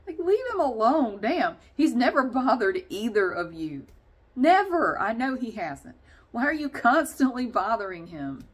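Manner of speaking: scolding the cats. Real, not acted. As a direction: scold the jerk cats for bullying him.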